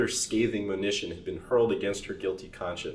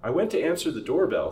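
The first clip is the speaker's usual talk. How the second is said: higher, louder fearful telling; trembling; 7 semitones higher, 6 dB louder than usual. Acted. Servant trembling as he explains to master, fearful. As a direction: tell it with rising fear.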